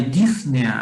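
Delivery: "disnea" corrected, with the stress on the E: dis-NE-a. Shown as a demonstration. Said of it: "lleva el acento en la E".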